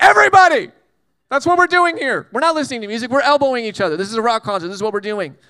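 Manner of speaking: loud, high crowd-member shout; mock yell. Crowd member at a rock concert yells at Jesus, loud. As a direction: yell it over the concert noise.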